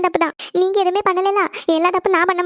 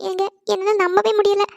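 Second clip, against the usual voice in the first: tearful from joy; 2 semitones higher than usual. Acted. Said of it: "இப்படிதான் அழ ஆரம்பிச்சிருவ".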